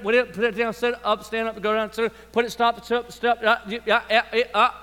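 a mild mock of a parent barking quick commands; parent barking orders. Parent ordering a little one about, mock-bossy. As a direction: rattle off short orders to a toddler. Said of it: "that's how you sound".

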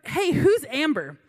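a slow, drawn-out boss calling a name; slow supervisor call. Retold or imitated. Supervisor calling out to the staff, slow and drawn. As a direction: ask the room slowly like a tired supervisor. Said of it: "he goes".

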